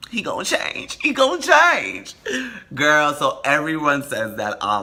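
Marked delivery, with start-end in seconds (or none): 0.1-2.1 mock lovestruck fool. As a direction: wail it like a hopeless romantic. Mock self-delusion, retold.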